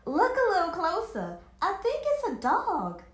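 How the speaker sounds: loud, high realisation; loud eager reveal; excited. A narrator's reading. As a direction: point it out loudly. Discovering it's a dog.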